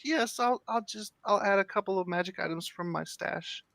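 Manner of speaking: squeaky guilty little gnome; little gnome woman. Acted. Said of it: "She goes".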